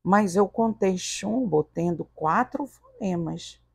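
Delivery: softly voiced unsure student; a quiet, tentative student question; hesitant pupil. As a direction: lightly play a pupil timidly checking an answer.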